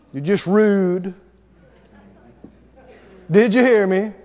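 ordinary talk, nothing marked

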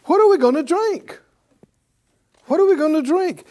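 high, pitiful whine of worry; mock the anxious complainer with a high whine; whiny complaint. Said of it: "a whine".

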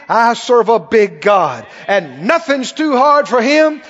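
bold faith declaration. Shown as a demonstration. Preacher declares freedom from addiction with rising force. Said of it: "when you begin to believe".

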